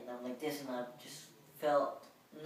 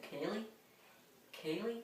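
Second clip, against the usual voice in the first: calling out name; 8 semitones higher, 5 dB quieter, slower than usual. Retold or imitated. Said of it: "she came in and she said".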